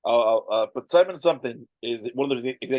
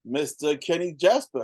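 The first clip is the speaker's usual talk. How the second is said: usual speaking voice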